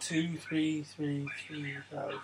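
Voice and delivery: slow breathy whisper of numbers. Retold or imitated. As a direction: whisper each digit slowly. Echoing the film's whispered phone number.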